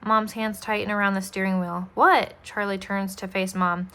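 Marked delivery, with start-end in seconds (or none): 2.0-2.3 high, loud startled question. A narrator's reading. Charlie turns to face Mom, startled. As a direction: jump up in pitch on the question.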